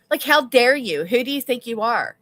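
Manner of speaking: loud how-dare-you; loud mock outrage; indignant. Real, not acted. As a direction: fling it out indignantly.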